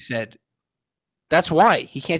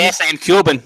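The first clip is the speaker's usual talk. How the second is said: put-on Cuban accent; 3 dB louder than usual. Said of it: "Was that, was that your Brazilian accent?".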